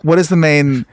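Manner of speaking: mock angry clerk. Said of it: "you seem very angry".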